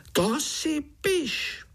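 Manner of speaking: high, slow wheezing little fly. A narrator's reading. Fly groom taunts the spider, high wheezing voice. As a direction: hiss it out like a tiny angry fly. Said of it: "sýpal mušák".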